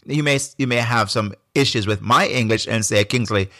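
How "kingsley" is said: ordinary delivery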